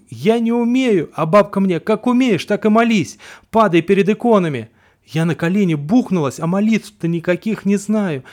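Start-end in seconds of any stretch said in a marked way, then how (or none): 0.1-1.1 loud, high, desperate yell; panicked cry. Acted. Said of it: "Я тоже кричу". 1.8-4.7 put-on shouting old woman. Бабка приказывает кричать молитву.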